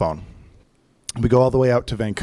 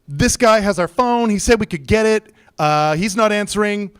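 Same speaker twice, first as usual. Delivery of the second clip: raised-pitch retold phone message; insistent caller; 5 semitones higher than usual. Customer leaving car service a message about his phone, insistent. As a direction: lay out the problem insistently.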